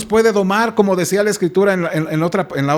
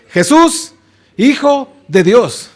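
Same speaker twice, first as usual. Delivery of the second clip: demons calling out; 3 semitones higher, 3 dB louder, much slower than usual. Acted. Demons cry the name.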